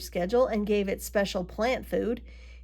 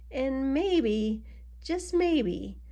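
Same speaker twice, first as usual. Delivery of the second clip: "maybe" lifted high, then higher; suspenseful hedging; 4 semitones higher, much slower than usual. A narrator's reading. Narrator sizes up the rival pumpkin, teasing suspense. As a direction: lift each "maybe", pausing between them.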